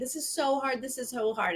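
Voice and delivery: mock sobbing, choked-up, tearful crying voice. Retelling how Brittany reacted to a vote pitch: imitating Brittany crying. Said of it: "She literally was, like, crying".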